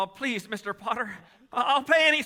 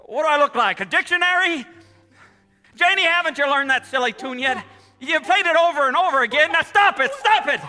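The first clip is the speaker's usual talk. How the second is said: loud, higher furious yelling; angry outburst; 5 semitones higher, 6 dB louder than usual. Acted. Father yelling at his kids to stop playing, furious. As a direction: blow up at the children.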